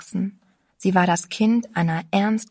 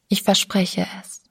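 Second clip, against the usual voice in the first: whispered promise. A narrator's reading. Frightened girl whispers her promise to the narrator. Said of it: "sagte sie leise".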